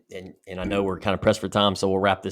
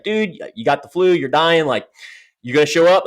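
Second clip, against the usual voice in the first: higher and louder, an incredulous buddy; nagging friend; 7 semitones higher, 7 dB louder than usual. Retold or imitated. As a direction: push him like a pal who can't believe it. Friend nagging him, voiced quote.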